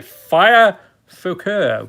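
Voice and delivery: drawn-out mock French pronunciation; French accent. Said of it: "the French accent".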